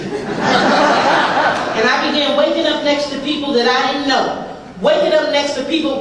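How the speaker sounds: drawn-out line, said through laughter; slow it down and laugh through it for the crowd. Shown as a demonstration. Repeating a line to the audience, drawn out with laughter. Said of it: "I'm sure it doesn't happen here".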